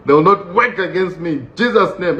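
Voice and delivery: hammed-up prayer against an enemy; comic deliverance prayer; mock warfare prayer. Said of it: "started praying against this man".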